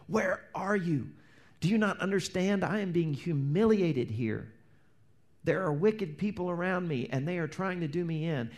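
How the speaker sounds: high-pitched, mildly hammed-up complaint; King David crying out. Preacher voicing David surrounded by enemies, crying out in protest. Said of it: "where David cries out".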